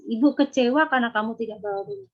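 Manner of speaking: kecewa said firmly and clearly; firm disappointed mother; firm intonation. Shown as a demonstration. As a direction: state kecewa firmly, calmly. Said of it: "Fokus saja intonasi".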